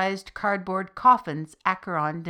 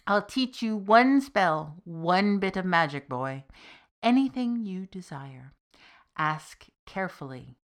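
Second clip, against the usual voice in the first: a hint of a grave old master, weighing the offer; measured wizard. Wizard rewarding his apprentice with one spell, lightly voiced and deliberate.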